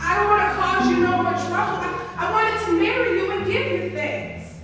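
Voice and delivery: high, loud, pleading apology; humble apology. Acted. Bo apologizing to Crystal, humble and pleading. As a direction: beg her forgiveness, loudly. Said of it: "all humble and apologetic".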